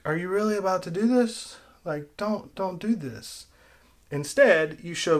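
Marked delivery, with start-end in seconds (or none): 0.1-3.5 incredulous pleading. Acted. Viewer begging the movie not to do this, mock pleading. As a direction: plead lightly, as a dismayed onlooker. Imagined viewer reacting to the scene.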